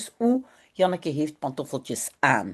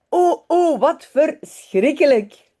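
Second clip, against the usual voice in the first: high, louder cry of mock horror; storybook dismay; 6 semitones higher, 5 dB louder, slower than usual. A narrator's reading. Reader reacts to the dog stealing a slipper, dismayed. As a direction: exclaim in dismay for young listeners.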